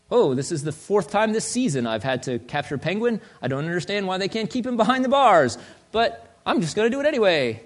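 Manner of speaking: mock-frustrated superhero grumble; frustrated Batman. Superhero complains about recapturing a villain, mock-frustrated. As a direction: grumble as a fed-up hero, hammed-up. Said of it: "he's never frustrated".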